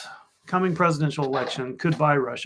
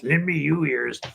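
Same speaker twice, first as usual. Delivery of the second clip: rat voice. Pretend. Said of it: "in a rat voice".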